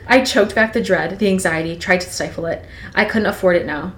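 steady storytelling read; reading Twilight aloud to a co-host; novel read aloud. Acted. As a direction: read it like an audiobook chapter.

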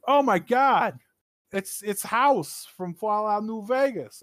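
high, slow gushing exclamation; mock excited friend. Imitating friends recognizing House in the photo, high and gushing. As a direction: gush like a thrilled gamer.

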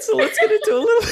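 very high, fast, squeaky with laughter; real helpless laughter. Real, not acted. Host trying to resume the show, cracking up. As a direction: try to carry on as laughter takes over.

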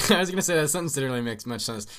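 loud, high, laughing protest. Real, not acted. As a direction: say it while cracking up for real. Cracking up at the misread sentence.

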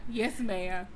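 low-pitched, polite minimal replies; imitating reticent kid. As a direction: mimic a shy boy answering dutifully. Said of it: "he just be like".

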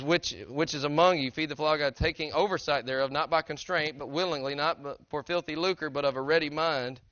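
brisk, emphatic Bible reading; preacher reciting a verse; scripture reading. Acted. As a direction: read the verse out firmly to a congregation. Reads scripture aloud.

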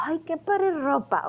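high, slow, starstruck gush; dreamy admiring. Retold or imitated. A girl at a concert admiring clothes, slow starry gush. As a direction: sigh it out, dazzled by the outfit.

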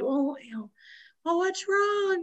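soft, high voice of concern; mock concern. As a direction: imitate gently asking a crying friend. Voicing Rachel comforting tearful Mindy.

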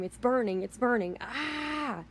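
mock scream rising to a high wail; retold scream. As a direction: imitate panicked screaming at restrained volume. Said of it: "you hear this woman scream".

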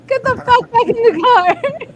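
high, loud shouted order; retold yell. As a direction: reenact yelling a friend back. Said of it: "and I was like".

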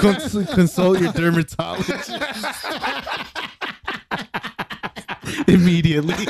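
mock doctor advice.

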